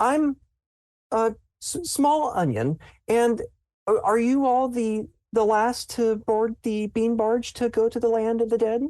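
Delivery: awkward nervous character voice. Voicing a character greeting the players at a barge: socially awkward nervous character. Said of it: "you can tell this is a socially awkward person".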